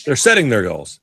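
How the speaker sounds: "setting" with a full -ing ending; television G's. Shown as a demonstration. Co-host echoing the TV version, G sounded in "setting". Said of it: "finish our sentences on television with G's".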